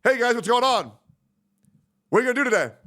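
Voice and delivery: high, bright sing-song hello; mimicked cheery greeting. Streamer mimicking a roommate's daily greeting, high and perky.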